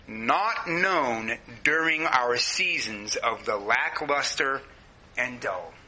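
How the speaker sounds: deliberate, unhurried quote reading; slow reading. Shown as a demonstration. Reading a wordy Walt Kaiser quote to the church, slowly. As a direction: read the quote slowly, word by word. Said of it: "I'm gonna say it kinda slow".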